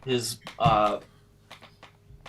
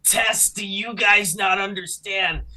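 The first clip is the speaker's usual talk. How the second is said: angry shout; 5 semitones higher than usual. Acted. Character insults party.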